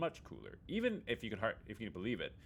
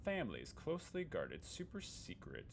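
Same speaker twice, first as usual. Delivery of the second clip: mock secretive; 3 semitones higher, 6 dB quieter than usual. Teasing secret family recipe.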